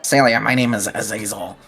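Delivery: a put-on toy company salesman. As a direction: pitch it like an eager salesman. GM voices Azazel the toy seller.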